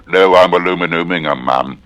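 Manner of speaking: lightly voiced repairman, brisk. Repairman answering the woman, quick and lightly voiced. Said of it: "and the repairman".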